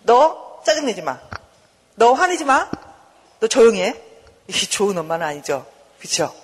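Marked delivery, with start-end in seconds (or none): 0.0-4.0 firm mock telling-off; bad-mother scolding. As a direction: order the child as a strict mother would. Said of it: "나쁜 엄마는 이렇게 말하죠".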